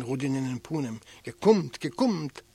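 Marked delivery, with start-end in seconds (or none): 1.2-2.4 loud cry breaking in; shouting in. Acted. Elik cutting into Rudin's words, shouting. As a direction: burst in on him with a shout. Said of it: "Elik schreit herein".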